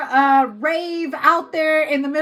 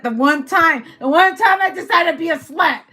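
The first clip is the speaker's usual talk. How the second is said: exasperated lament; 3 semitones higher, 4 dB louder than usual. Acted. Acted lament of the pregnant woman.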